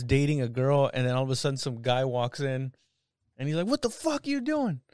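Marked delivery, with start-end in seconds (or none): 3.7-4.8 high pitched imitation of a guy confronting; mock angry boyfriend. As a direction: play the jealous boyfriend, half joking.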